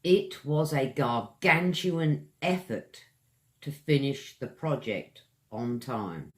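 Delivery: gargantuan effort read as a model line; example read. Shown as a demonstration. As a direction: read it cleanly. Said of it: "one more example".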